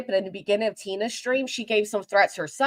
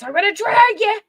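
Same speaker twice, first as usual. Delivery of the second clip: mock rant; 10 semitones higher, 6 dB louder, faster than usual. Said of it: "She was going".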